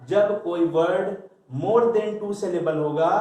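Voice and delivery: slow, deliberate teaching; slow emphasis. Shown as a demonstration. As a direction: spell out the rule word by word. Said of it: "तो याद रखिएगा". (धीमे-धीमे समझाते हुए)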